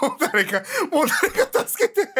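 laughing while begging for help; half-laughing help me; laughing plea for help. Real, not acted. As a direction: giggle through a mock cry for help.

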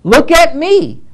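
mock someone begging to be noticed; mock show-off. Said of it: "show Christ that".

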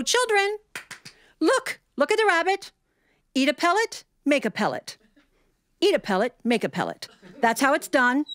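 high, delighted teacher voice; lilting schoolteacher showing the class; the teacher marvelling at the rabbit, in a high delighted voice. Retold or imitated.

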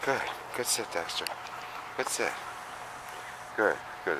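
flat, even praise; level and unexcited; monotone praise. Shown as a demonstration. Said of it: "Just monotone praise".

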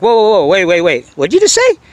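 mock double-take from a Texan local; startled Texan. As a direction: stop him cold in disbelief. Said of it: "They're like".

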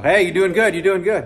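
mock a friendly Vietnamese guy's accented greeting. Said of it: "I was impersonating a guy who has Vietnamese accent".

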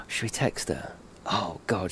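hushed, breathy scheming whisper; whispered plan to text his wife; conspiratorial whisper. Real, not acted. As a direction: lean in and whisper the idea. Conspiring about texting his wife.

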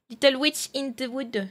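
English title in a French accent; self-mocked English accent. Real, not acted. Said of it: "avec mon magnifique accent".

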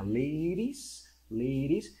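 LADIES with the D tapped like an R; American-style "ladies", LAY-rees; American pronunciation. Shown as a demonstration. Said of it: "pronunciación americana". ("ladies" a la americana, la D como R)

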